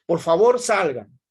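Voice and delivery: loud, firm please-get-out command; teacher demonstrating a loud command to leave; firm loud order. Shown as a demonstration. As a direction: order them out of the room, loudly. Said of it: "Está haciendo la función apelativa o conativa".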